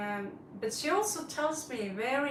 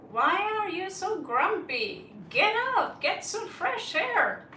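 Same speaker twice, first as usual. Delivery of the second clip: scolding the cat; 7 semitones higher than usual. Retold or imitated. Owner scolding her grumpy cat, mildly mock-annoyed. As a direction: nag the cat to get outside.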